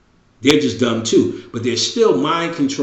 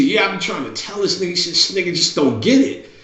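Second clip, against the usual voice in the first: son complaining; 6 semitones higher than usual. Retold or imitated. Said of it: "He said".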